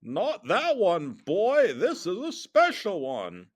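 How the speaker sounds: hammed-up sinister overlord; Darth Sidious. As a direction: correct him like an evil emperor. Darth Sidious answers in villain voice.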